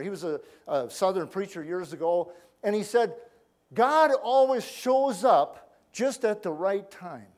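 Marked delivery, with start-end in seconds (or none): 3.7-7.3 preacher's pronouncement. Retold or imitated. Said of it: "I remember old Vance Havner".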